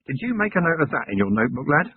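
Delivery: sweetly, a touch too nicely; lightly honeyed, faintly mocking; honeyed tones. Commander sweetly quizzing the young constable. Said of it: "in honeyed tones said".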